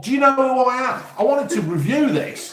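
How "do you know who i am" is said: a higher, quick show-off line; puffed-up celebrity, tongue in cheek; mock self-important. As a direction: play the big shot half in jest. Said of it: "you big-headed twat".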